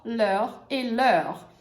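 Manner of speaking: leur e leur said very slowly; teacher repeats leur slowly; slow pronunciation. Shown as a demonstration. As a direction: stretch each leur. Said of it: "Então, leur".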